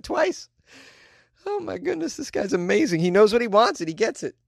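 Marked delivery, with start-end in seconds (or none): none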